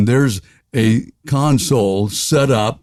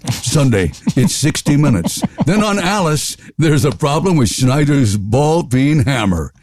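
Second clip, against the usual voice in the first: announcer voice; 2 semitones higher than usual. Retold or imitated.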